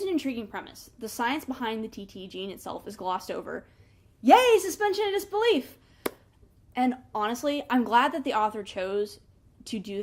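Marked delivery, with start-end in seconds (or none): 4.2-5.8 high, loud, sarcastic hooray; mock cheer. Real, not acted. Reviewer shrugging off the science, sarcastic high-pitched cheer. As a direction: cheer it with ironic glee.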